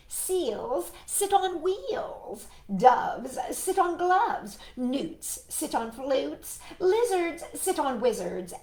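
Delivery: cat lecturing the frog. Acted. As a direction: list them off like a know-it-all. Cat rattles off list, higher.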